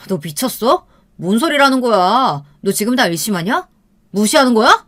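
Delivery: heated, rising angry retort; agitated anger. Acted. Boyfriend cursing at her over the phone, agitated. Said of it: "너무 흥분하면서 말을 하는 거예요".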